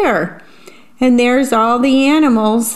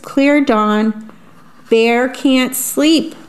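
put-on reading to children. A narrator's reading. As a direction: savour each rhyme for little listeners. Reads picture book aloud.

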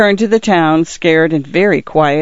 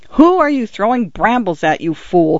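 sharp, raised outburst of anger; angry cry; 4 semitones higher than usual. Acted. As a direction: snap at the stranger who threw brambles. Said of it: "cried a voice".

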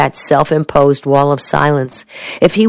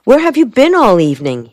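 raised-pitch, insistent question; demanding; 6 semitones higher than usual. A narrator's reading. Soldier questions her about her evening, demanding. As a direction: press for an answer. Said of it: "he demanded".

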